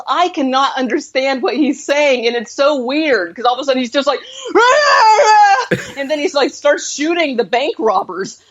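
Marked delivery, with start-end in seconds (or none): 4.2-5.9 high, loud yelping war cry with a laugh; mock unintelligible battle yell. Retelling the cowboy storming the bank, yelping battle cry. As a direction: imitate the cowboy's strange yell as he fires. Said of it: "the way he yells".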